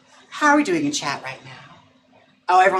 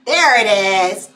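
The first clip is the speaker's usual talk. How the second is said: higher, louder and slow, drawn out in triumph; delighted; 4 semitones higher, 8 dB louder, much slower than usual. Real, not acted. Owner celebrates the dog finally barking, drawn out. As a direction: savor the win.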